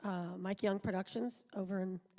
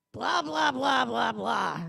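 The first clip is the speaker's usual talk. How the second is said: mock American accent; 4 semitones higher, 8 dB louder, much slower than usual. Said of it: "sound exactly like she sounded in America".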